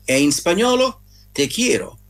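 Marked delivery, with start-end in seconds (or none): 1.3-2.0 "te quiero" with the Spanish "kie" sound; simple Spanish "te quiero", Italian accent; Spanish pronunciation. Shown as a demonstration. Teaching listeners the Spanish phrase, Italian-accented Spanish. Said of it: "Prendete sempre con le pinze la pronuncia".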